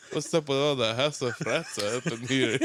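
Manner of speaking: laughing through a mock Yiddish accent; lightly voiced Jewish grandpa, giggling. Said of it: "I always make s-, Jewish voices".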